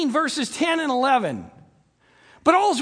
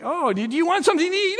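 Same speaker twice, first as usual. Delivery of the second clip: lightly voiced fussing parent, quick and higher; coaxing parent; 5 semitones higher, much faster than usual. Parent offering food to an upset child, hurried coaxing. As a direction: offer help in a hurry.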